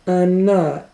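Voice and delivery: high little-sister protest, not truly whispered; small high denial; whispered by Louise. Acted. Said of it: "whispered Louise".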